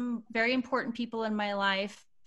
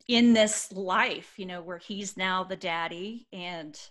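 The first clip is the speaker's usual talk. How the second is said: getting a little emotional; tender, halting, moved as you speak; real welling-up feeling, held in; 6 dB louder than usual. Real, not acted. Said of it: "I'm a little emotional about this".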